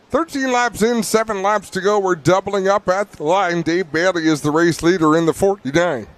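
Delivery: hiccupy tipsy announcer. Real, not acted. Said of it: "I'm hiccuping like I'm drunk".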